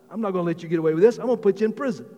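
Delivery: mock threat, rushed out firmly; stern refusal. Servant to his debtor, refusing mercy, mildly angry.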